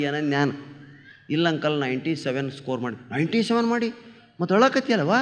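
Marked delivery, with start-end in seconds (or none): 1.3-3.0 understated, low imitation of a crying girl; softly downcast, mock-tearful reply; mildly tearful girl. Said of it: "ಒಂದು ಹುಡುಗಿ ಅಳಾಕತ್ತಾಳೆ". 3.1-5.1 higher-pitched echo in disbelief; mock incredulity. Uncle baffled by crying topper.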